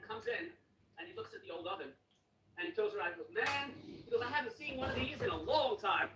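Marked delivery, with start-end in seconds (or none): 3.3-3.7 higher, imitated marvelling; amazed repairman. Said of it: "The way he said it was so funny". 4.2-6.1 high, slow imitation of marvelling; amazed repairman. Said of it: "The way he said it was so funny".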